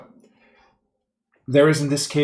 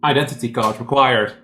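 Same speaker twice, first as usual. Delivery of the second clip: flat machine announcement; robotic voice; 4 dB louder than usual. Acted. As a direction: announce it like a door computer. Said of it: "robotic voice say this".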